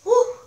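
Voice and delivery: high, quick puff of relief; hot whew. Real, not acted. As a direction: blow out a sharp, overheated whew. Overheated, puffing out a breath.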